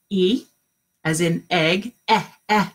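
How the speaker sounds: eh, eh with a clipped short vowel; short e sound. Shown as a demonstration. Teacher modelling the eh sound for children to copy. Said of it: "Can you say that with me?".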